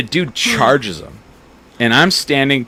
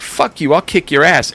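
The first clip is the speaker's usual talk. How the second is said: retold threat; 6 semitones higher than usual. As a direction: play the drunk picking a fight. Retold threat from drunk guy.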